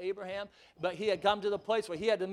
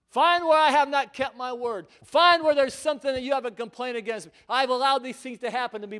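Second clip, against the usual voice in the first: God's voice; 4 semitones higher, 9 dB louder than usual. Acted. God voiced pleading in sermon.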